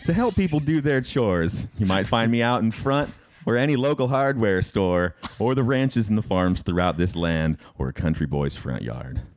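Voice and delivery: slow, earnest ad read; infomercial voice. Acted. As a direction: sell it like a late-night commercial. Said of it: "You made it sound like an infomercial".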